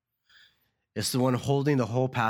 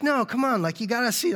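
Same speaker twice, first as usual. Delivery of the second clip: high, louder, pushy sing-song hostess; insistent hostess; 12 semitones higher, 4 dB louder, faster than usual. Retold or imitated. Hostess insists on showing Larry round, high and pushy. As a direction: coax him into the tour. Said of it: "she's like".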